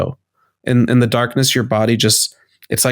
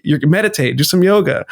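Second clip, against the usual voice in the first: annoyed inner voice; 4 semitones higher than usual. Retold or imitated. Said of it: "then I'd be like".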